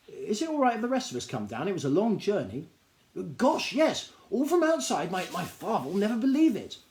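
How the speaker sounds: a high, eager little gnome voice, bursting with news; high excited gnome. Acted. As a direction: gnome tells a stranger about the store, high and eager. Gnome voice, amazed.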